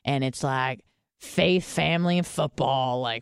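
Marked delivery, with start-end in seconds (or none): 1.2-3.0 lightly put-on small-town American accent. Listing small-town values, in a mock small-town accent. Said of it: "I don't know why I'm using this accent".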